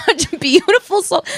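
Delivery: high, loud gushing imitation; Ludwig. Man massaging her feet praises her, gushing impression. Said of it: "He's like".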